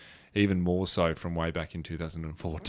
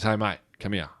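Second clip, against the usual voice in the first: retold gruff summons, louder; aggressive; 2 semitones higher, 5 dB louder than usual. Stranger summoning him over, retold aggressive tone. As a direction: order him over, imitated. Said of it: "quite aggressive tone".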